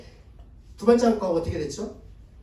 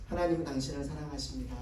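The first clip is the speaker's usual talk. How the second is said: gentle declaration; 6 semitones lower, 12 dB quieter than usual. Shown as a demonstration. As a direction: say it softly as a model to follow. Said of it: "자, 다시 한번". (회중에게 따라 하라고 부드럽게 들려주는 말투)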